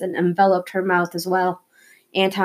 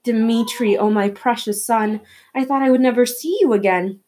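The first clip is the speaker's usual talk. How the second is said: joyful crying; 4 semitones higher than usual. Acted. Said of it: "she cried, tears of joy".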